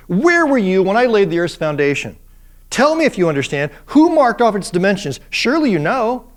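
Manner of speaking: booming, mocking challenge; a sarcastic deity quizzing Job; sarcastic God. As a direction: lay it on thick like a scornful God. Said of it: "That's sarcastic".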